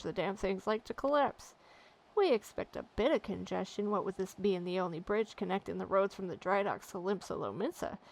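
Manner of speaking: gruff seafaring dockhand, a bit grumbling; a harried pirate-ish dock worker complaining; salty sailor. Acted. Dockhand asks the lad to find Maga, grumbling sailor voice.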